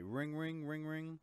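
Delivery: spoken phone ring, rising in pitch; imitated phone ring. Host starting a pretend call, imitated ringing. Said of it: "that's not the ringing button".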